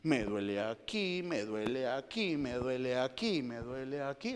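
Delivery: a patient listing pains; patient tells the doctor where it hurts, mildly whiny; complaining patient. Retold or imitated. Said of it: "comienzo a decirle".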